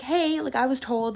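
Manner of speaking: high-pitched "hey", easing down; retold tentative query.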